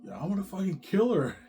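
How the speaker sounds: high mock threat breaking into laughter; threatening wife. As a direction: imitate a jealous wife, amused. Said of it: "she's actually saying that".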